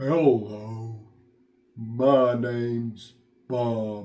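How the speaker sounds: low, very slow, slurred dopey voice. Speaker explaining how to make character voices, in a low, slow, slurred dopey voice. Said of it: "make it sound a little bit lower pitched".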